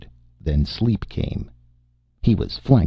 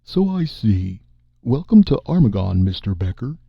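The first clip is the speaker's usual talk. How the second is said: crafty; 3 semitones higher than usual. Acted. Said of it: "Dawes said craftily".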